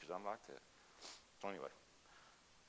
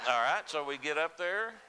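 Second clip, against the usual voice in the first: high burst of laughter into the words; laughing at the memory, louder; 10 semitones higher, 8 dB louder than usual. Real, not acted. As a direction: laugh as you pick the story back up. Remembering mom's joke.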